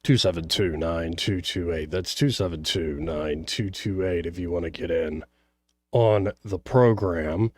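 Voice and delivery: low, soft radio host read; radio call-in plug. Real, not acted. Host giving listeners the call-in number, low radio plug. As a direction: give out the number low and easy.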